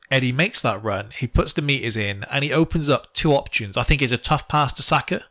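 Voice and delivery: flat, even interpreter delivery; Bielsa translator voice. Pretend. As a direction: read it like a flat translation device. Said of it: "do that in the translator's voice that used to do it for Bielsa".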